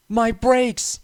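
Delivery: high, loud, desperate cries for help; panicked shout. A narrator's reading. Runaway engine pushed downhill, screaming in panic. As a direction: scream it as you lose control.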